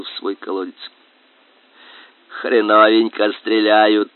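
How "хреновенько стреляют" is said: grunting boar voice. Acted. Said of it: "хрюкал он из колодца фанерным голосом".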